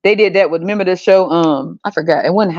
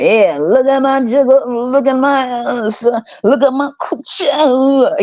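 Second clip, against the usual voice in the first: imitating Chloe; 4 semitones higher, slower than usual. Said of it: "she was doing the most".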